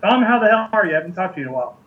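talking while chewing; chewing a Twizzler while talking; mouth full. Real, not acted. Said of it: "Sorry, I'm munching".

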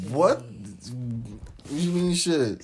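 slow, drawn-out copy of his voice; imitating a friend. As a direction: stretch it out like him. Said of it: "You sounded like me".

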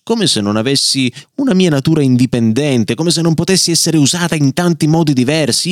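a proud little strap venting its grievance, rising in pitch; indignant outburst. Acted. Bookmark leather tongue protesting to the family, indignant outburst. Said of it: "sbottò in presenza di tutti".

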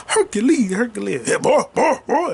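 hammed-up high granny calling; grandma impression. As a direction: call out high like Eddie Murphy's grandma. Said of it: "The way the grandma talk like this".

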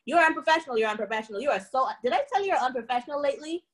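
mocking jeer. Mocking repeated put-down.

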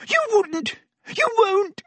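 high, gasping, terrified protest; gasped. Acted. Pettigrew gasping at the threat to kill him, high terror. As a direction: gasp it out in horror. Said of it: "gasped Pettigrew".

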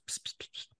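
hushed voiceless psst; whisper. Retold or imitated. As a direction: hiss the psst under your breath. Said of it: "the lawyer whispers".

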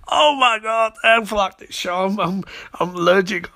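high, stammering distress; mock panic. Barry in anaphylactic shock, high-pitched mock panic. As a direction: play up the allergic victim's alarm.

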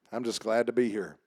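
low, unenthused mumble of a worn-out churchgoer; lightly acted indifference, low and soft; numb. Preacher voices a numb churchgoer at worship, numb and low. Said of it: "sometimes you're just numb".

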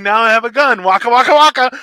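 high, loud Muppet bear voice; Fozzie Bear. Retold or imitated. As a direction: deliver it like a bear comic landing a punchline. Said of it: "spot on Fozzie Bear".

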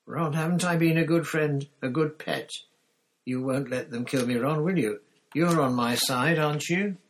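high, loud desperate begging; pleading Pettigrew. Acted. Pettigrew begs Ron to save him, high and loud. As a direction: whine for your life to a child.

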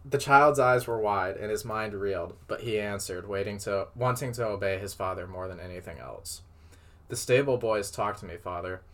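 measured read-aloud storytelling voice; story narration. A narrator's reading. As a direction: read it out like a tale. Reads fan fiction aloud.

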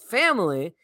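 imitating a New England "family"; imitated "family". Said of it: "sounded the way that Brian Kelly said it".

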